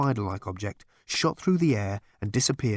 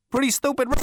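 chuckling; 4 dB louder, faster than usual. A narrator's reading. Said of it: "chuckled Zaphod himself".

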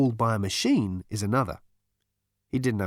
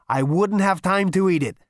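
higher, louder, greedy voice; hungry for that cake; ravenous Zaphod; 8 semitones higher, 5 dB louder than usual. A narrator's reading. Zaphod grabbing the fairy cake, louder ravenous voice. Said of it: "he said ravenously".

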